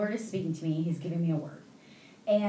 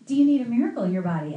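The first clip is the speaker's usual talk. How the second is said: quick, louder imitated question, falling at the end; friend's question retold; 2 semitones higher, 5 dB louder, faster than usual. Pastor retells friend's question, quick and loud. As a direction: rattle off her question firmly.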